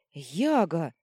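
loud sharp outcry; indignant shout. A narrator's reading. Vita scolding Yaga for touching the needle. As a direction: scold him with his name. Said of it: "возмутилась Вита".

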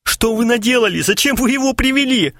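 high whining plea; whimpering. A narrator's reading. Kharchenko whimpers at his friends, high and whiny. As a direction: whine it like a frightened child. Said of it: "Харченко захныкал".

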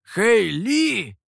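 high, loud astonished cry of a name; stunned. A narrator's reading. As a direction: exclaim it in shock, voice jumping up. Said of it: "ошарашенно произнёс вернувшийся Михоу". (ошарашенно, громко)

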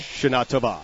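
Shana Tova as sha-NA to-VA; correct Hebrew pronunciation. Shown as a demonstration. Showing co-host the right syllable, Hebrew "Shana Tova". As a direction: model "Shana Tova" with open "ah" endings. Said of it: "On the wrong syllable".

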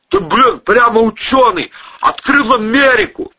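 loud, high mockery; mock the obvious remark; sarcastic retort. A narrator's reading. Acted sarcastic retort in story.

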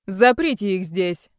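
slow, loud barked order; commanding villain. Acted. Villain Stepanych orders his thugs to lock them up, loud barked command. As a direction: order the thugs like a crazed boss. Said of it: "скомандовал Степаныч".

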